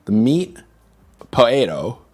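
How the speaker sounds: British "potato" with the first t dropped; British accent. Shown as a demonstration. Streamer practising for chat, attempted British accent. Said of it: "Let's Learn a British Accent".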